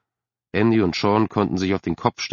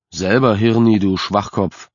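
louder, insulting yell at his brother; yelling back; 5 dB louder than usual. Acted. Older brother yells back at Andy in the car. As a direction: shout the insult right back. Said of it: "um besser brüllen zu können".

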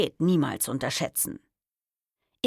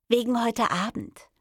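higher, put-on cheerfulness; deliberately cheerful; 7 semitones higher than usual. A narrator's reading. Woman phoning her partner about tonight, pointedly cheerful. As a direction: brightly pull yourself together. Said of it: "sagte ich betont heiter".

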